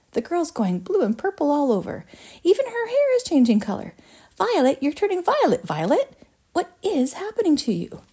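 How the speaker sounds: very high, escalating hysteria; panicked yell. A narrator's reading. Mother watches Violet change colour, hysterical yelling. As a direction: climb into high-pitched alarm. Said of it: "yelled Missus Beauregard".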